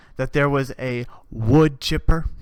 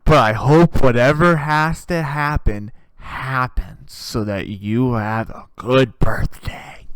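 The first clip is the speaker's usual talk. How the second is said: mock menace; 6 dB louder, slower than usual. Mock threat to grandma.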